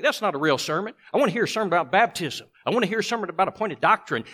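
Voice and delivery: quick, pushy demand for doctrine; mock impatient churchgoer. Preacher mocking a member who dismisses kindness sermons, fast and pushy. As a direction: rattle it off like a fussy pew-sitter who wants baptism talk. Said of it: "and they think".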